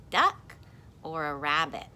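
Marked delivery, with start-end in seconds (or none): 0.1-0.5 playful question. Acted. Contrasting the two answers.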